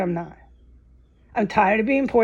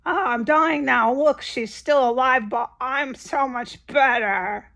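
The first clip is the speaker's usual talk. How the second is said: mock dying gloat; 2 semitones higher than usual. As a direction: ham up a smug final breath. Mocking dying smug neighbour.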